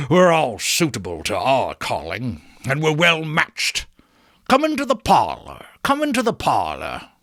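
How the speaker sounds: lightly voiced old fence, wheezy welcome; a sly old dealer ushering them in; old Joe.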